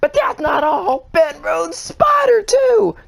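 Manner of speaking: high, loud, slow build to a yell; announcer hype. Acted. Host announcing the next crying-towel winner, rising announcer yell. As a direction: hype it up like a game show host.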